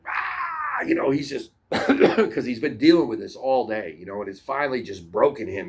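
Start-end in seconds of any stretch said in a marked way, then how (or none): 0.1-0.8 a sudden high furious yell; enraged yell. Retold or imitated. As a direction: let out a raging scream. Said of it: "this guy's like".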